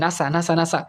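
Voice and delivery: "নাসা" as a single smooth word; said as one word. Shown as a demonstration. Teacher shows NASA becomes easy to say, as one word. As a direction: repeat "নাসা" as a word, not as letters. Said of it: "এই জন্য এটা উচ্চারণ হয়ে যায়".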